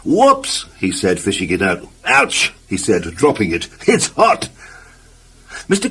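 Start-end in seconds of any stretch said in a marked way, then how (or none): 0.0-0.7 high, rising startled yelp; sudden high-pitched oops; startled whoops. Acted. Letter burnt in toaster. 2.0-4.5 startled ouch. Acted. Burns fingers on hot letter.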